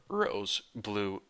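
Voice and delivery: a real puberty voice crack. Real, not acted. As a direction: voice cracks and breaks, slowed. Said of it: "my voice crack right there".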